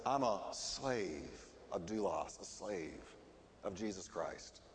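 low, hushed and slow, quoting a servant; humble. Retold or imitated. Preacher quotes James calling himself a slave, humble.

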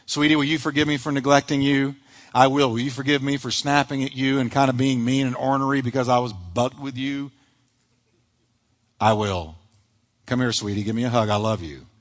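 soft, low reconciling voices that fade as they go; a couple asking forgiveness, softly and tenderly. Acted. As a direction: make up with your spouse, gently. Acted couple forgiving each other.

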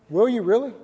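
preacher pressing the congregation for an answer, loud; forceful challenge. Real, not acted. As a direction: rise up loud and press them.

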